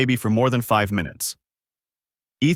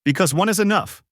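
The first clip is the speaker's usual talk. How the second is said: snapping through gritted teeth; 9 semitones higher than usual. A narrator's reading. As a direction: bite it out through clenched teeth. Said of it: "Through gritted teeth, Ethan snapped".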